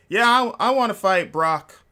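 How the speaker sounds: high, loud, mean turtle-man growl. Retold or imitated. Bobby Lashley demanding the fight in a mean turtle voice. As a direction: play a muscly turtle picking a fight. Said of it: "mean turtle voice".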